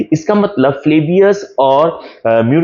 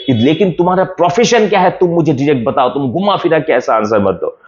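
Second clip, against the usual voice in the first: angry Murellus; faster than usual. Acted. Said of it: "वो और गुस्सा गया".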